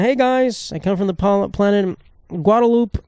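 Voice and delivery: a silly alien greets the podcast; mock alien visitor. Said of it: "Bob the Alien".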